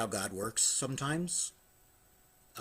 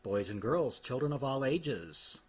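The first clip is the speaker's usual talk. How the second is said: big booming announcer opening; lucha libre announcer. Acted. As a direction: welcome the crowd like a ring announcer. Podcast opener, ringmaster-style greeting.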